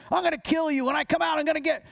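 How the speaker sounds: put-on high-pitched menacing voice; threatening demon. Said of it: "Always threatening".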